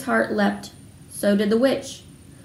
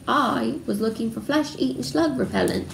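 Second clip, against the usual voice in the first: growled; 3 semitones higher than usual. A narrator's reading. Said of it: "growled Hagrid".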